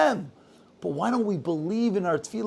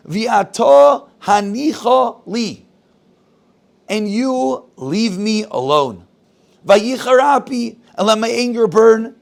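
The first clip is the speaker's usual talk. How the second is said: loud, slow, thundering words of God; divine anger; 6 dB louder than usual. Acted. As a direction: proclaim it slowly like an angry God. God's angry words to Moshe.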